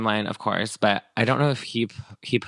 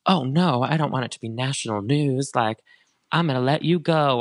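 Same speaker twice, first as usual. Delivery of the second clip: higher, louder mock panic; mock scared cop; 5 semitones higher, 3 dB louder than usual. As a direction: pretend to cave in alarm. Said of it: "he's gonna be like".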